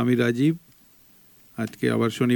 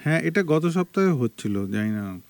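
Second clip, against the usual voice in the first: echo; 3 semitones higher than usual. Real, not acted. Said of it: "মানে দুবার করে শুনছি".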